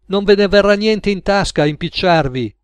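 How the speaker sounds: high, insistent warning; agitated warning. A narrator's reading. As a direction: warn them off, pitched well up. Cook warns them off.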